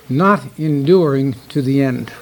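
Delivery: "not enduring to the end" said slowly, weight on "not"; slow, deliberate emphasis on "not enduring to the end"; emphasized point. Shown as a demonstration. Preacher announcing the last point, "not enduring to the end" slowly emphasized. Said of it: "point I want to emphasize".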